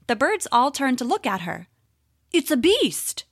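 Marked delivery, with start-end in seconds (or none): 2.3-3.2 hooting owl. Acted. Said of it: "hooted a proud old owl".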